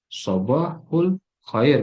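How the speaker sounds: "Sabahul khair" very slow, word by word; formal written form. Shown as a demonstration. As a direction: sound out "Sabahul khair" slowly with u. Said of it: "Kalau itu kan tulisannya gitu".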